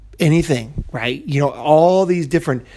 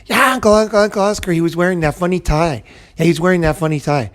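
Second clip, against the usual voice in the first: put-on kid excited; 3 semitones higher, faster than usual. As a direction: kid chiming in with a happy memory. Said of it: "And then he says".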